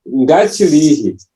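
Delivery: "Ngachirihi" slowly, marking the final "hi"; emphatic -hi ending. Shown as a demonstration. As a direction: draw out "Ngachirihi", sounding the hi. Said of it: "like you're trying to emphasize".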